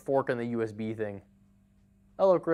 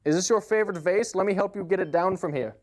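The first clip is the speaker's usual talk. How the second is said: sly, louder taunting offer; a cat pretending to help while knocking things down; mock helpful; 7 semitones higher, 6 dB louder than usual. Cat to grandmother, sly mock helpfulness.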